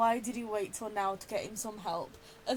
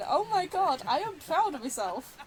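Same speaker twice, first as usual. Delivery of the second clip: higher, louder, delighted; pleased with yourself, high and loud; excited cheer; 6 semitones higher, 4 dB louder than usual. Real, not acted. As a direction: cheer yourself on after a good fight. Player cheers own fight.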